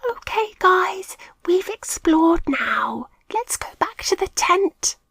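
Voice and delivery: high, frightened whisper. A narrator's reading. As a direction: whisper so nothing hears. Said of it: "Milo whispered".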